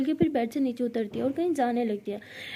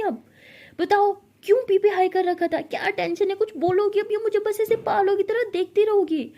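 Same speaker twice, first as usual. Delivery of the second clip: higher, louder scolding; angry scolding; 4 semitones higher, 4 dB louder than usual. Acted. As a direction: tell her off, exasperated. Ishani scolds Pari. (गुस्से में डाँटना)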